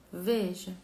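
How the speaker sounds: ordinary talk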